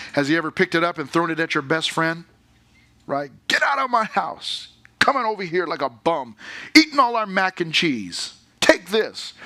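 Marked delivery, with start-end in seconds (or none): 3.5-9.3 lightly voiced angry dad, raised a bit; hammed-up dad throwing out the bum; mock angry dad. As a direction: play a fed-up dad chasing off a guest. Imagined dad yelling at friend.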